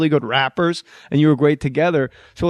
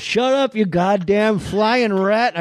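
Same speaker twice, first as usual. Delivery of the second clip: higher, slow Hackett snap; Buddy Hackett; 6 semitones higher, much slower than usual. Retold or imitated. Hackett scolding the parrot, higher Hackett voice. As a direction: bark at the bird like Hackett. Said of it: "same voice for all three guys".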